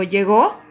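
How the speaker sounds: "¿Llegó?" asked as a question with a rising end; asking intonation. Shown as a demonstration. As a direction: ask "¿Llegó?" with the pitch rising up. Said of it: "Por ejemplo, yo le digo".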